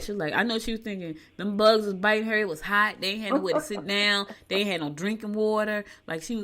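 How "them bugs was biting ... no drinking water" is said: mad. Retold or imitated. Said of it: "'Cause she was mad".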